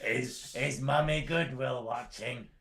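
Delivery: slow, put-on voice asking sweetly; slow teasing put-on voice; teasing mock question. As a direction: drag it out to tease.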